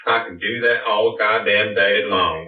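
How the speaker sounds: Southern drawl. Pretend. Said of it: "Whenever we talk like this".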